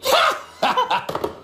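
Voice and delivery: short high laugh; high burst of laughter. Real, not acted. Laughing at the hosts' joke, a high laugh. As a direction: let out a laugh.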